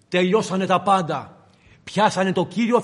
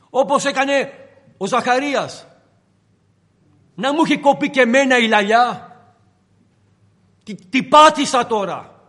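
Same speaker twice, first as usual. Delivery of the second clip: panicked Peter; 3 semitones higher, 4 dB louder than usual. Acted. Peter's panicked inner monologue.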